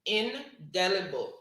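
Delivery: "indelible" said clearly and loud with a falling end; dictated spelling word. Shown as a demonstration. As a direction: call "indelible" out clearly like a spelling bee caller. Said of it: "So that's word number four".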